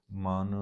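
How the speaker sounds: ਮਨ pressed and held, as a call; stressed address. Shown as a demonstration. Teacher showing a word of address, ਮਨ with emphasis. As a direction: lean firmly on ਮਨ and let it stand alone. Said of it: "ਇਹਨੂੰ ਜ਼ੋਰ ਦੇ ਕੇ ਪੜ੍ਹਾਂਗੇ".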